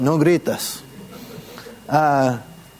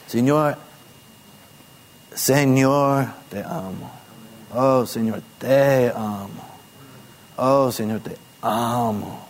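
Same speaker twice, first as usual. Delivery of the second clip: soft, slow repeated call; quiet from deep within; 3 semitones lower than usual. Shown as a demonstration. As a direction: murmur it from the heart. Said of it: "De lo profundo, no hay que gritar". (invocación suave desde lo profundo)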